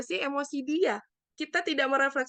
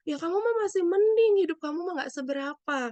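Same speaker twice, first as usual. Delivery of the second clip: higher, louder start, brushing off their troubles; dismissive one-upping; 5 semitones higher, 4 dB louder than usual. Acted. Helper telling a victim others have it worse, mock-dismissive. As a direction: imitate a helper belittling someone's hardship. Acted helper belittling a sufferer.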